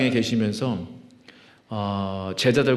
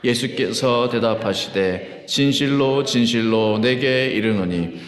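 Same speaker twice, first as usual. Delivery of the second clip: slow, measured congregational recitation; even, drawn-out Bible reading; unison scripture reading; slower than usual. Real, not acted. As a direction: read slowly so a congregation can follow.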